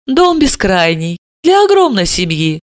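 praising. Acted. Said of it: "расхваливала Липакова".

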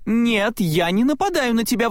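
высоко и громче, горячо возражая; возрази другу высоким голосом Майка; возражение Майка. A narrator's reading. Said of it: "возразил Майк". (Майк возражает Салли высоко и горячо)

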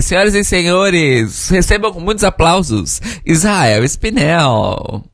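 slow, showy emcee announcement; lightly voiced drag show host; grand entrance announcement. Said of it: "ideia de nome, de nome drag".

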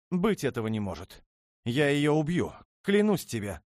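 very high, loud rising rage; wild with jealousy; jealous fury. Acted. Princess learns of the rival and swears to kill, shrieking.

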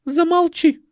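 high loud commanding snap; sharp order. A narrator's reading. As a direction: cut him off imperiously. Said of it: "велела Николетта".

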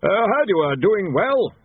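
high loud nervous voice; nervous War. A narrator's reading. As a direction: force out the pleasantry. War nervous small talk.

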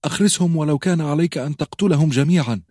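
أخرسهم screamed high and loud, falling to the end; desperate high scream. A narrator's reading. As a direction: hurl the order أخرسهم at him. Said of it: "وصرخت".

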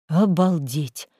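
slow stretched-out awe; drawn-out amazement. Acted. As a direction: drag it out in disbelief. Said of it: "протянула Лиза".

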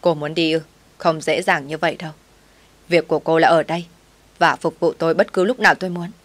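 understated gritted-teeth warning; through gritted teeth. Acted. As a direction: grind the words out as a threat. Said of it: "gằn giọng".

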